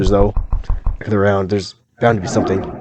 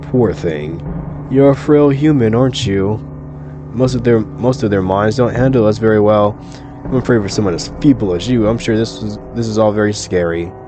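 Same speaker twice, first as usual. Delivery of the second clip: lightly voiced otherworldly woman pitying a human; condescending eldritch deity. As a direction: talk down to a frail human, sinking at the ends.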